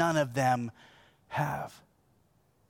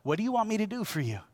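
fast, a little higher, stress on want; quick repeat; 5 semitones higher, faster than usual. Shown as a demonstration. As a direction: rattle the same question off quickly. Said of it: "Here's the connection".

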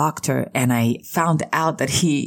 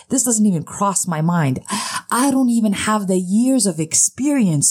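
pleading innocent, half laughing; baffled kid; 3 semitones higher than usual. Retold or imitated. Kid answering his scolding parent, bewildered and a bit higher. Kid protesting, voiced by speaker.

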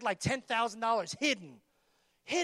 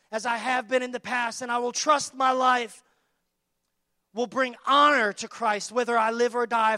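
forceful reading; 6 dB louder than usual. Acted.

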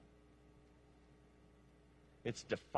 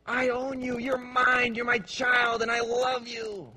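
voice of God; 9 semitones higher, 5 dB louder than usual. Pretend.

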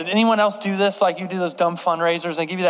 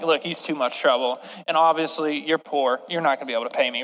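imitated kidnapper; 6 semitones lower, 4 dB quieter, faster than usual.

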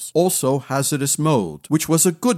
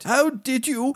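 amazed; 10 semitones higher than usual. Acted. Kawa amazed.

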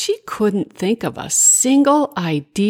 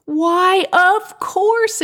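high, hearty storybook exclamation; eager, high-voiced yes from a character; exclaiming; 13 semitones higher, 4 dB louder, much slower than usual. A narrator's reading. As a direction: agree with gusto, pitched way up. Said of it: "exclaimed Willie".

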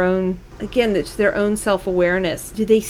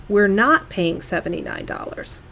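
a softer, quietly firm reassurance; calm reassurance; 4 dB quieter than usual. Retold or imitated. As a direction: settle her down quietly and firmly. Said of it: "my husband very calmly said".

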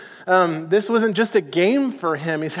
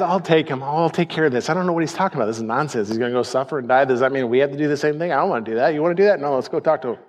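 Peter reassuring the guys; 5 semitones lower, faster than usual. Acted. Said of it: "told the guys".

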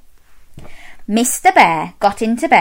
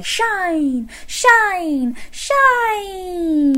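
higher, gently gliding falls; the shining sun; 8 semitones higher, much slower than usual. Pretend. Presenter getting children to be the sun, high gliding call. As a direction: beam each word out, the last longest. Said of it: "shine like the sun and say".

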